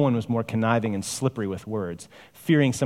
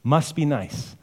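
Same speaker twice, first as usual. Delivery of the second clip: mock envious; 6 semitones higher, 3 dB louder, slower than usual. Mock envy of the rich.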